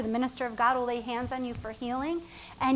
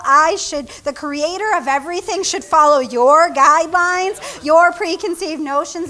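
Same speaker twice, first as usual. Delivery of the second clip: firm God voice; 2 semitones higher, 6 dB louder than usual. Retold or imitated. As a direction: lay down the law. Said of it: "that God's like".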